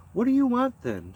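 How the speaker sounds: demanding. Acted. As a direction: demand an answer from a stranger. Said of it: "she demanded".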